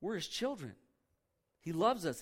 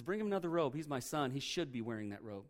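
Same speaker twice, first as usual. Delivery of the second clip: tender father; 3 semitones lower than usual. Retold or imitated. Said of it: "He says".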